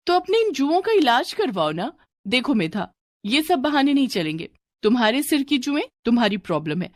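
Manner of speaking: put-on strict teacher rebuking a girl; scolding teacher. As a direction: tell the pupil off in front of the class. Teacher scolds Medha in class.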